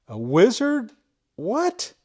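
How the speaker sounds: high, loud disbelief; real shock at the find; surprised. Real, not acted. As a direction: gasp out the discovery. Spots a wizard tool.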